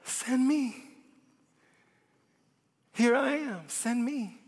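a touch of hushed surrender; hushed Isaiah. Acted. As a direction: quietly give yourself up, send me. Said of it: "And Isaiah said".

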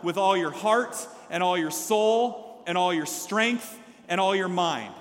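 slow, loud group reading; measured congregational read-aloud; nice and loud. Real, not acted. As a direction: lead the room in reading aloud, slowly. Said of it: "let's read it nice and loud together".

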